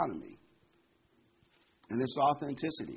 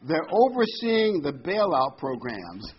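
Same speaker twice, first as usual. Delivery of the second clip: laughing; 3 semitones higher, 5 dB louder, slower than usual. Real, not acted. Joke tag line.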